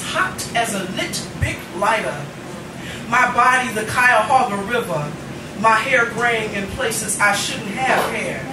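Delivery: spoken-word poetry, rhythmic and weighted; stage poet reading aloud; poem recitation. Acted. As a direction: perform the poem to a live room. Recites Menopause the musical poem.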